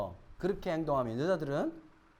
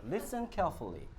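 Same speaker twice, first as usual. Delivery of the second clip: slow, deliberate English listening test voice; mock exam narrator; test announcer; 3 semitones lower, 6 dB quieter, much slower than usual. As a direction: read it like a recorded exam. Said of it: "듣기 평가 한번 해보자".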